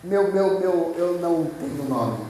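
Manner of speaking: halting, repeated first word; acted mild stutter; stammering Moses. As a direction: stumble over the opening word, then get it out. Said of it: "tentando falar, mas ga-, gaguejando".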